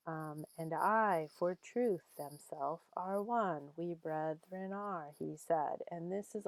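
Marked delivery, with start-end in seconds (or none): 0.6-5.1 "And I for truth, themself are one" slow, beats on I, TRUTH, SELF, ONE; audible iambic meter. Shown as a demonstration. Teacher letting students hear the meter, measured iambic "And I for truth". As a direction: let the short-long beat of "And I for truth, themself are one" ring out. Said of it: "you can really hear, um, the meter".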